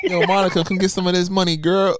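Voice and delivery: a touch of hammed-up flirting; imitating him hyping. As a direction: call out like a playful streamer. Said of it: "he does like".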